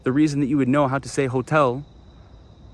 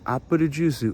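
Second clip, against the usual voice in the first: Japanese pronunciation; 3 semitones higher than usual. Shown as a demonstration. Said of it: "You hear".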